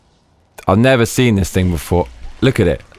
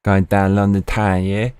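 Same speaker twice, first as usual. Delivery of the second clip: mock Cockney accent. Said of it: "this thick Cockney accent".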